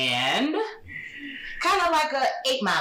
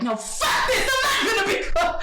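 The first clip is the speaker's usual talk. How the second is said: higher, laughing outburst; giving up; 9 semitones higher than usual. Retold or imitated. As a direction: throw the calm away with a laugh. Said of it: "And then I'd be like".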